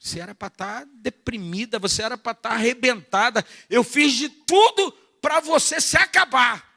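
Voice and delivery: the devil raging that the believer didn't break; devil's taunt. Acted.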